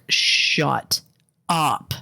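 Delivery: drawn-out, emphatic dismissal; exasperated retort. Pretend. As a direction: shut them down, pausing between the two words. Exasperated retort at disliked accents.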